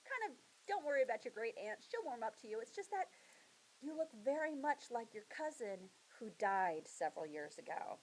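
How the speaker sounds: cheery welcome, hurrying past the awkward part; a great uncle putting the new girl at ease, mildly jolly. Retold or imitated. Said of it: "he's all jolly and happy".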